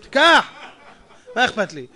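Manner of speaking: tossing off מה אכפת לי with a laugh; amused imitation of a careless spender; laughing mock shrug. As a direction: chuckle through מה אכפת לי, carefree. Mocking the tax-refund buyer.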